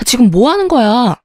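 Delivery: bang on the door and demand an answer; acted shout. Wife shouts through locked door at husband, acted yell. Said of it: "소리 질렀어요".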